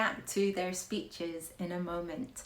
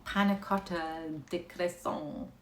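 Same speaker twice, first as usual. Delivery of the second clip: a hesitant try at a French accent; a shy, half-hearted French accent; attempted French accent; 3 semitones lower than usual. Shown as a demonstration. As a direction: say it like a French menu, half-confident. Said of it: "I can't do a French accent".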